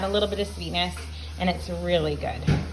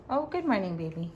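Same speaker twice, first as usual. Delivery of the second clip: tender greeting; 7 dB quieter than usual. Real, not acted. Greets her child mid-video.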